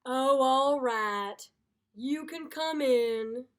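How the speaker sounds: slow, loud reluctant give-in; grudging invitation. Acted. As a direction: give in with a put-upon sigh.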